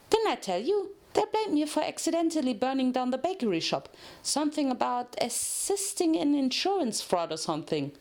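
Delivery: bubbly cellmate voice, lightly done; lightly voiced Pinky. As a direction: chatter it off brightly, a little fast. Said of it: "said Pinky".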